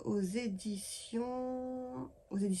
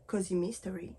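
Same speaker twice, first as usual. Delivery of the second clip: "Cozy Mystery" in a light English accent; a mock English accent on "Cozy Mystery". Shown as a demonstration. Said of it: "Je fais l'accent anglais".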